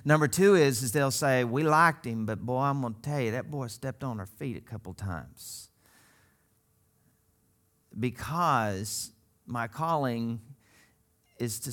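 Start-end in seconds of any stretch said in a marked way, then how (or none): 1.4-5.7 put-on folksy rural American accent; country accent. Country folk sizing up their preacher, rural accent. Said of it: "you'll love their accent".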